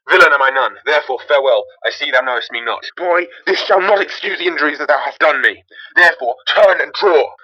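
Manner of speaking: loud, heated defiance; angry challenge. Acted. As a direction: square up for a duel. Quarrel between Romeo and Tybalt.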